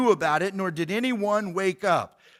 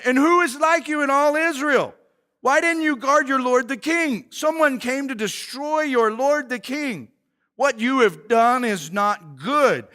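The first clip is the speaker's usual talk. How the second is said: rebuke; 5 semitones higher, 5 dB louder than usual. Acted. David rebuking Abner loudly.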